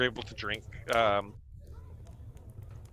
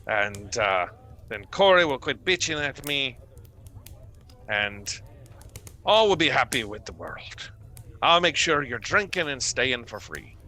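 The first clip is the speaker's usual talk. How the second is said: Trovis voiced; 2 semitones higher than usual. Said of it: "He looks over at you and he goes".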